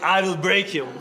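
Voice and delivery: loud, high Drago threat; shouted threat. Retold or imitated. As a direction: bellow it like a fighter.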